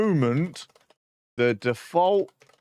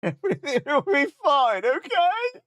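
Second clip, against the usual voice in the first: high, sing-song comforting; mock reassurance; 12 semitones higher than usual. Streamer mock-soothing himself as the tool breaks, high sing-song. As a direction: soothe yourself in a much higher mock voice. Repeating reassurance mockingly, rising.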